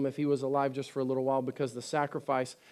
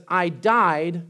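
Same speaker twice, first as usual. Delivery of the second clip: louder ringing declaration; proclaiming quote; 5 dB louder than usual. Acted. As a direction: announce it triumphantly. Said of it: "He says".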